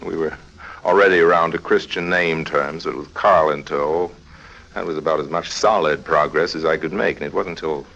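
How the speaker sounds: low, even narrator voice; story narration. A narrator's reading. Harry narrates the days before the theft, in calm storytelling narration.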